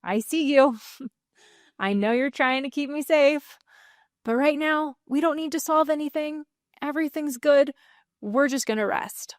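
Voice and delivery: gentle, calm self-talk; soothing words to an anxious part; reassuring inner talk. Shown as a demonstration. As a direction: speak kindly to your anxious mind. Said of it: "You can say".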